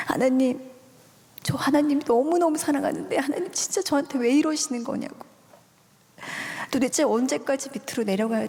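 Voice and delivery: desperate prayer, voice lifted in pitch; retold desperate cry. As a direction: cry out to God in a restrained mock yell. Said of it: "소리를 막 질렀어요".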